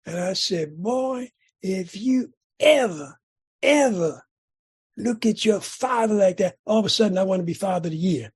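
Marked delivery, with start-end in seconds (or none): 0.8-6.6 a mild mock of an angry father's warning; dad scolding son, half-acted anger; retold angry warning. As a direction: lean on ever, a touch of rage. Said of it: "respond with anger and rage".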